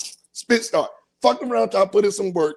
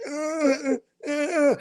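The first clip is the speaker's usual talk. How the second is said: mock moaning; 7 semitones higher, much slower than usual. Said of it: "All you hear is them".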